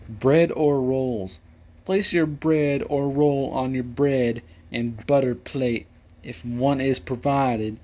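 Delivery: put-on slow drawn-out country folk accent on the etiquette reading. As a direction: read it out like a country folk, unhurried. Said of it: "why am I speaking like a country folk?".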